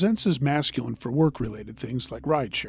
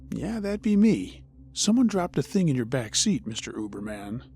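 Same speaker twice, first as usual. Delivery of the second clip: sugary and unsettling, pitched up; creepily cutesy voice. Retold or imitated. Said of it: "In a creepily cutesy voice".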